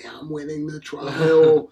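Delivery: slow, drawn-out lawyer voice; lawyer impression. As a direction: mimic a lawyer, stretching the words. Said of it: "the lawyer being like".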